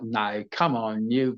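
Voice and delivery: British accent. Shown as a demonstration. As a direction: mimic a British guy. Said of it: "then he was like".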